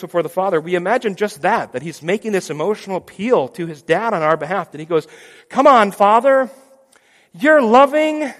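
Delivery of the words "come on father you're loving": high, loud, slow begging; pleading son. Pretend. Jesus pleads with the Father, high and begging.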